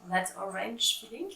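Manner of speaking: That Orange Feeling with a playful English accent; self-mocking English accent. Shown as a demonstration. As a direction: put on a jokey English accent for the yarn name. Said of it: "Alors, avec le super accent".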